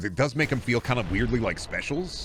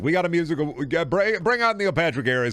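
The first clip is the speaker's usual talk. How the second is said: hyped producer; 3 semitones higher than usual. Retold or imitated. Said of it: "We're just like".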